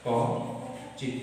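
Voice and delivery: কচিত spoken very slowly, each sound held; slow dictation. Shown as a demonstration. Teacher dictating word to pupils, very slowly. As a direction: drag out কচিত for the class. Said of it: "কি আছে?".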